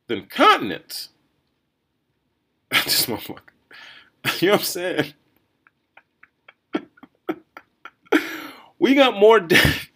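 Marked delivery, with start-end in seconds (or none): 2.7-9.9 real laughter breaking through the words; can't hold back a stunned laugh; laughing in disbelief. Real, not acted. Reading covid death figures, laughing despite himself. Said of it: "I don't mean to laugh".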